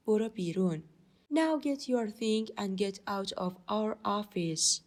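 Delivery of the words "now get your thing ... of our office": slow, deliberate phrases for learners; teacher demonstrating at a slow pace; slow model reading. Shown as a demonstration. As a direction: read it out slowly for students. Teacher models the English slowly.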